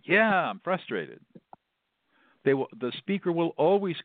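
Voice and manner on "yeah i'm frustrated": slow, higher-pitched confirmation; acted emphatic agreement. Upset speaker confirming the listener got it, emphatic.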